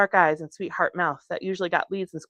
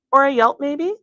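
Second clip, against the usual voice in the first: questioning; 9 semitones higher, 7 dB louder than usual. Acted. Girl suggests alternative.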